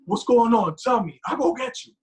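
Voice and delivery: high, loud mock mother fretting; hammed-up anxious mother; imitating worried mom. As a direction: fuss over him like a worried mom. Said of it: "my mom is like".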